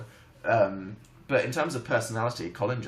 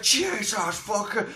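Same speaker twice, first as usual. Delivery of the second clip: startled cry; 8 semitones higher, much slower than usual. Retold or imitated. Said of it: "I'll be like".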